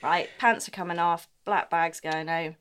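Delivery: quietly decide to flee; a hushed, decisive retreat; muttered resolve. Retold or imitated. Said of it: "I was like".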